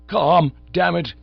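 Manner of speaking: loud, slow and exasperated; frantic Bingo swears he is calm, angrily; exasperated outburst. A narrator's reading. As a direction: snap at yourself for losing control. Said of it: "He upset a chair".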